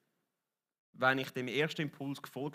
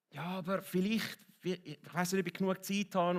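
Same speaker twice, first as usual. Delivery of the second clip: acted doubting inner voice, pitched higher; hesitant excuse; 4 semitones higher than usual. Preacher voicing a passer-by's doubts, hesitant. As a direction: make a tentative excuse to yourself.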